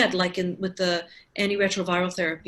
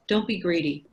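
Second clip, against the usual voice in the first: put-on serious mentor with a faint German accent; lightly imitated German accent, poorly done; Emil Gottschalk; 2 semitones lower than usual. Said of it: "he's a German accent".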